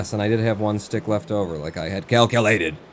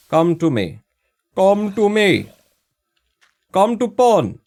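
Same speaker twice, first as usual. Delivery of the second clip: loud, high call, getting louder each time; taunting call; 9 semitones higher, 6 dB louder than usual. Pretend. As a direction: call out mockingly, building in pitch and volume. Beckoning the zombie over.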